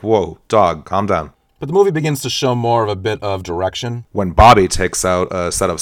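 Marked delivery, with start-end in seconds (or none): 0.0-1.3 loud. Retold or imitated. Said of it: "I was there like".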